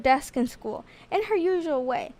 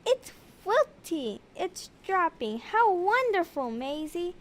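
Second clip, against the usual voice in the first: relieved principal; 3 semitones higher, 4 dB quieter than usual. Acted. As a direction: ease off as the problem fades. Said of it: "declared Mister Graham".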